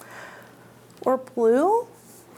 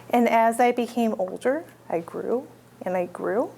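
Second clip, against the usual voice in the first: lower, growing dinosaur voice; big dinosaur voice; 4 semitones lower, 3 dB quieter than usual. Acted. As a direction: sink the voice as the dinosaur grows huge. T. rex tells how it grew.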